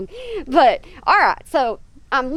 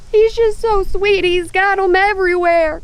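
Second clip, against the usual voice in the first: cooing fondly; 6 semitones higher than usual. Real, not acted. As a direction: gush over a beloved pet. Cooing over her animal.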